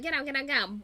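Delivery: loud, urgent re-enacted panic; freaking out. Fan urging a character to flee, freaking out. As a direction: fire it off in mock panic. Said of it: "freaking out".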